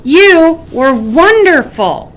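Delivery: high, slow gushing praise; admiring praise. A narrator's reading. Friends praising brave Wombat. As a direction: gush over her. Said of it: "cried Weasel and Woodchuck".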